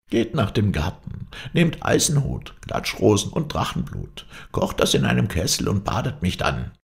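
high-pitched crone giving instructions; dying old witch. Acted. Witch tells knight how to revive her, high crone voice.

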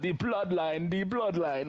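mock relative. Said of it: "one of mine is like".

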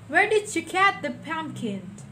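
loud, high, sharp demanding question; a greedy stepmother pressing hard; wicked stepmother. A narrator's reading.

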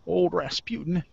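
a lightly put-on voice on the beer name; a funny voice. Host lightly voicing a beer name on the podcast. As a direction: drop a light character voice on the name. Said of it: "I don't know why I said it in that voice".

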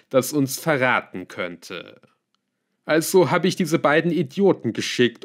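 lightly voiced villain recounting his scheme; a hint of a self-assured schemer; scheming villain. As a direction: tell it with deliberate, emphatic relish. Melchior continues his account.

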